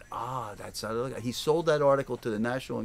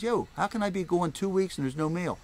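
indignant question; 7 semitones higher than usual. Retold or imitated. Demanding answers at post office.

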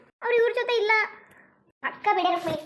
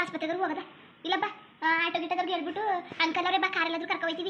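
concerned aunt; 2 semitones lower than usual. Acted. Visiting aunt asking if she is unwell, mildly concerned. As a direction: ask with an aunt's mild concern.

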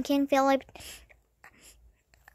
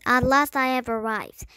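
proclaimed arrival, a touch louder; declaring; 4 dB louder than usual. A narrator's reading. Young prince announces himself to the room, declaring. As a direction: announce your own arrival. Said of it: "the boy declared".

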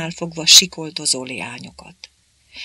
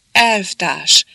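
beside himself; 7 dB louder than usual. A narrator's reading. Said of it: "kiáltott képéből kikelve".

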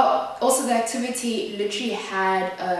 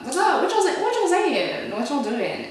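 high, light mock gossip voice; mocking nosy schoolmates; 9 semitones higher, 4 dB louder than usual. Mimicking classmates asking what's going on, higher mock tone. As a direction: play the nosy crowd, higher and teasing.

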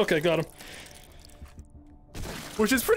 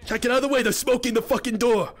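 shouting; 5 semitones higher, faster than usual. Real, not acted. Yelling at teammate during attack.

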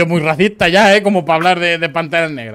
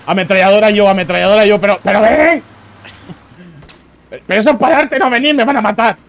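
raging gamer; 4 semitones higher, 4 dB louder than usual. Real, not acted. Yelling at teammates mid-fight.

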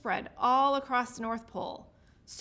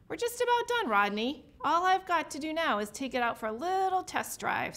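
jolly Santa; 4 semitones higher than usual. Acted. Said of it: "said Santa".

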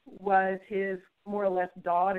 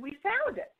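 excited announcement; 11 semitones higher than usual. Retold or imitated. Doctor announces result.

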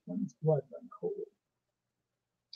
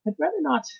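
hesitant; 12 semitones higher, 7 dB louder than usual. A narrator's reading. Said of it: "with some hesitation".

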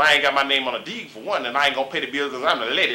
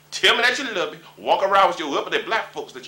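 pleading; 7 semitones higher, 3 dB louder than usual. Acted. Pleading to black women.

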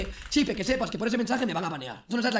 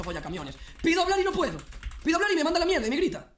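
mock complaint; 7 semitones higher than usual. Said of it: "ayer Carola le dijo eso".

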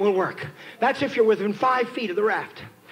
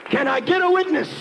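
full-force preaching; 3 semitones higher than usual. Acted. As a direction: preach with mounting urgency to the congregation.

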